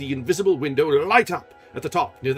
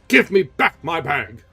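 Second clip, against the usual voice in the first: slow, louder demand; stern demand; 5 semitones higher, 11 dB louder than usual. Acted. Erik demanding the bag, stern. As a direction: press it, slowly.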